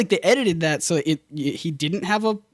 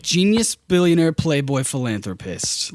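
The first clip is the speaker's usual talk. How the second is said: matter-of-fact list. Retold or imitated. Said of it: "He's not saying it super smart alecky".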